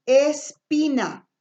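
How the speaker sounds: "espina" said slowly, syllables apart; word demonstration. Shown as a demonstration. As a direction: slowly model "espina" with a clear p. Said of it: "Entonces me queda".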